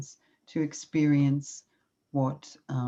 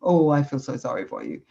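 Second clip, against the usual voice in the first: mock yelling; 3 dB louder than usual. Shown as a demonstration. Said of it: "You weren't yelling at the person".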